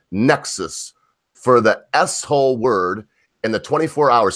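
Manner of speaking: slow, deliberate news reading; emphatic, spaced-out reading of a report; article read-aloud. Real, not acted.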